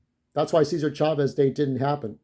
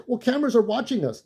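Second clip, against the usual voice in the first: quoting the biker; 7 semitones higher than usual. Retold or imitated. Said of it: "he said".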